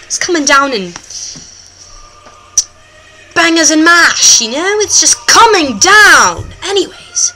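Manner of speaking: hammed-up British presenter accent; put-on British accent. The host talks to viewers, put-on British accent. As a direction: play a chatty host in mock British.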